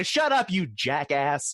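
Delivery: slow, put-on exasperated insult; mock-weary brush-off; exasperated crowd. Everybody turning on Bloomberg, slow exasperated put-down.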